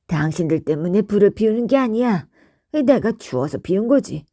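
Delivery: quick, grumpy brush-off; gruff denial. Acted. Gogo denies lighting the fire for the guests, quick grumpy brush-off. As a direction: wave off the thanks fast and curtly.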